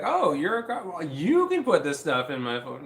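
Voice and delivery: mock delight at finding free help; happy neighbor. Neighbor happy to find a carpenter, mock-excited. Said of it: "He was, like, happy".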